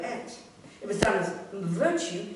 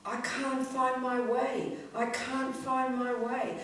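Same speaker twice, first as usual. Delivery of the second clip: slow, higher plaintive wail, mildly acted; mock a drawn-out tearful plea; imitated crying plea; 5 semitones higher, much slower than usual. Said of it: "he was kind of crying".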